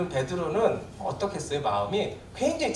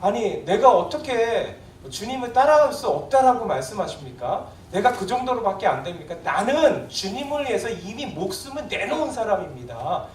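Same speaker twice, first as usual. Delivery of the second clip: voicing Peter's wounded protest, louder at the end; hurt Peter; 5 dB louder than usual. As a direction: plead like a disciple who feels slighted. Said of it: "이렇게 지금 표현하고 있는 거예요".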